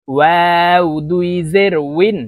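ওয়াও drawn out with rounded lips, a clear w sound; rounded-lip waw. Shown as a demonstration. Teacher showing learners waw, ওয়াও slow with rounded lips. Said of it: "চারটি হরফের উচ্চারণ চারভাবে হবে".

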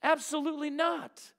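preacher booming the apostle's reply; emphatic refusal. Retold or imitated. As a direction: thunder out Paul's no. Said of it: "He says".

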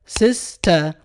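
سيستر said in two clapped beats, sis-ter; split into syllables. Shown as a demonstration. Teacher shows pupils how to clap سيستر in two beats. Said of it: "ينطقها بهذه الطريقة".

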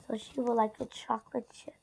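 soft unvoiced whisper to the camera; whispered aside. Real, not acted. Vlogger tells viewers the order, whispered aside. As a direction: whisper it so the customer won't hear.

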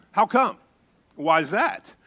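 lightly imitated curious child; inquisitive kid. Preacher imitating children's endless questions, inquisitive. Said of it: "their favorite question seems to be".

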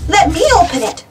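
high, eager shout; lightly acted excited demand. A narrator's reading. Boy wants his turn at the treasure, shouting eagerly. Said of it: "shouted Buster".

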